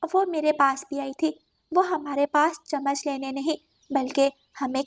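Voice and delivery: lightly voiced sparrow, near natural voice; understated storybook sparrow; sparrow character. Sparrow tells crow of cat's visit, understated. Sparrow repeats what happened.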